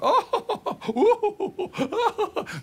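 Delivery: high, loud put-on Italian laugh; loud, high hammed-up laugh; hearty mock laugh. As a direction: laugh like a showy salon boss. Boss Giorgio's laugh.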